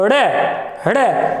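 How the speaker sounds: अड़े with a quick tongue flap; अड़े, each one a separate thrown flap; flapped retroflex. Shown as a demonstration. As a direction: flick अड़े off the roof of the mouth. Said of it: "तो ये उत्सिप्त ताड़नजात कहलाते".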